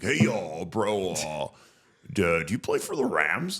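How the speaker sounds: lightly voiced friendly classmate; mock casual greeting from a keen student; imitating Tom.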